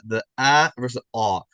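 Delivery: slow "ah" light then heavy "ah"; vowel contrast. Shown as a demonstration. Teacher contrasting vowel sounds, slow light and heavy ah. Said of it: "work a little bit on the".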